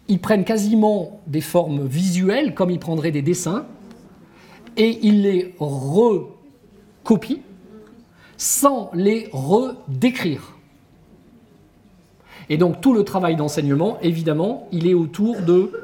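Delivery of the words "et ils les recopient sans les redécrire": very slow, with "recopient" and "redécrire" broken after a stressed "re"; syllables spaced out. Shown as a demonstration. Lecturer on pupils copying without understanding, "recopient" and "redécrire" slowly split apart.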